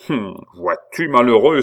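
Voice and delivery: outburst swelling loud and high; exclaiming. A narrator's reading. Abbé seizing on Pitou's apparent confession, exclaiming. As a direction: pounce on the last word. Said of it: "s'écria-t-il".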